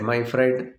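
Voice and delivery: serious. Acted. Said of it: "became serious and said".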